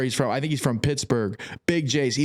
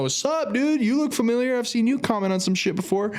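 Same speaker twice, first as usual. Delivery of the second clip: hyped greeting; 10 semitones higher than usual. Retold or imitated. Greeting a fan who recognizes him in Boston. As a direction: greet a fan like an old friend. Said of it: "I'm like".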